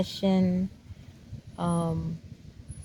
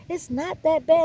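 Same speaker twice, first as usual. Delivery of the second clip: mock dismissive; 9 semitones higher, 4 dB louder than usual. Friends dismissing her worry.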